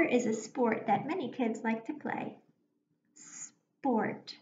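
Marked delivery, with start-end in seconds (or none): 3.1-4.3 slow spelling voice. Shown as a demonstration. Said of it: "Say it slowly if you need to".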